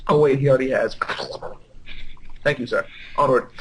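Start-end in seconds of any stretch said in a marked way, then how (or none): none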